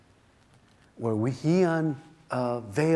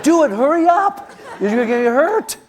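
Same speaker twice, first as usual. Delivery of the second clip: high, loud shout with a laugh in it; father shouting up to his panicking son, loud and urgent; urgent yell; 12 semitones higher, 9 dB louder than usual. Retold or imitated. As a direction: yell it up at him, hurry him.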